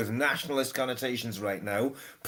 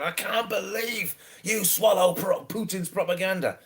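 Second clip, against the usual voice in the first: mocking sing-song quote; 6 semitones higher than usual. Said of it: "I get people saying".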